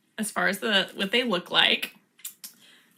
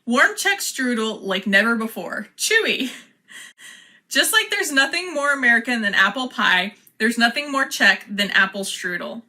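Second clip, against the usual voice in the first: ad read. Acted. Reads the package blurb aloud.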